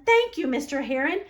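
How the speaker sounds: high, eager thank you; a child bursting with joy; excited thanks. A narrator's reading. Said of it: "cried Franklin".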